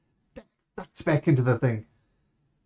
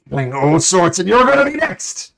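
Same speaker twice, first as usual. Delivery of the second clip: angry threat; 5 semitones higher, 7 dB louder than usual. Acted. Guard threatens the party.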